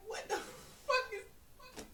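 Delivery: high, slow, laughing what the fuck; laughing disbelief. Real, not acted. Co-host laughing at how dumb the move was. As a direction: crack up mid-sentence in disbelief.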